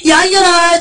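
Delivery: loud, high furious insult; angry yell. Acted. Damned man screams at his lover in hell. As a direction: scream abuse at her. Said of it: "듣기 싫다고 막 그래요. 소리 질러".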